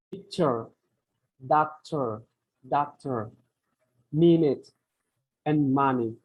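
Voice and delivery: PIC-ture, DOC-tor, MIN-ute, MON-ey; first-syllable stress. Shown as a demonstration. Teacher giving two-syllable examples, first syllable stressed in picture, doctor, minute, money. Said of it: "stress in two syllable".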